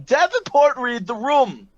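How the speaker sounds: high, loud scolding; the director scolds her knight; yelling. Acted. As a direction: snap at him to read the room. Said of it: "the director just yells at him".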